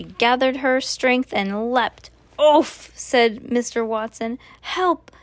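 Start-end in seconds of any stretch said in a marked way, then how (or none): 2.4-2.9 loud, high grunt of impact; winded oof. A narrator's reading. Driver leapt on by pig, loud oof. 4.6-5.1 high-pitched cry for help; alarmed plea. A narrator's reading. Driver pinned under pig, high alarmed plea.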